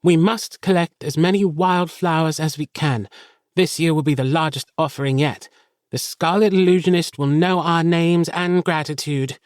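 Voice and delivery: put-on high, commanding child leader; barking orders. A narrator's reading. Cleo dismisses Arlo and orders her friends about, barking. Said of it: "she barks out orders".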